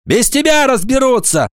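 high-pitched cross schoolgirl; spiteful, high rebuke; angry retort. A narrator's reading. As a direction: put him down crossly in a high voice. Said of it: "вдруг зло сказала Гвоздёва".

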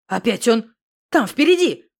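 loud alarmed exclamation; exclaiming. A narrator's reading. Misha cries out to Alyona, loud and alarmed. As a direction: cry out, spotting him ahead. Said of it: "воскликнул он".

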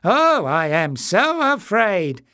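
high, loud, slow sarcastic whine; mock fear. A narrator's reading. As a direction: pretend to be scared, dripping with scorn. Greyness taunting captive.

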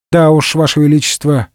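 ordinary delivery, nothing marked

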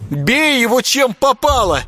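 high shrill princess shriek; mock squeal of a princess. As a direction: screech it at him. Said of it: "верещала княжна".

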